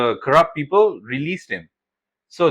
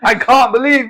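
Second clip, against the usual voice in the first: stuck in British accent; 8 semitones higher, 6 dB louder than usual. Shown as a demonstration. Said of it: "Bro, I can't say it normally".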